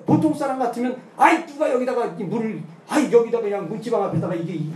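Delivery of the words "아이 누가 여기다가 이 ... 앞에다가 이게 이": loud, grumbling blame at the doorway; mock yell. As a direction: act out a cranky husband shouting. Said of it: "소리를 지를 수가 있잖아요". (짜증 섞인 고함 흉내)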